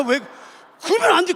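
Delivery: ordinary delivery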